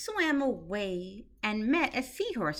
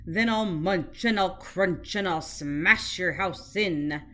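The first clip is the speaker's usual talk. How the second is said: shark roar; 4 semitones lower than usual. Acted. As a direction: growl it like a hungry bully shark. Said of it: "roared the shark".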